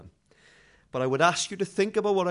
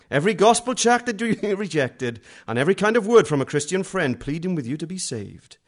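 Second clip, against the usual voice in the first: louder dramatic trailer narration; movie trailer voice; 4 semitones higher, 8 dB louder than usual. Retold or imitated. Preacher mocking a tract as a film-trailer voiceover, dramatic. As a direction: read it like a film trailer announcer.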